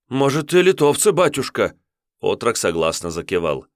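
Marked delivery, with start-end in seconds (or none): 0.1-1.8 высокий, громче, на грани плача; умолять спасти деревню; отчаянная мольба отрока. Acted. Отрок согласно кивает. (отрок в панике молит воеводу)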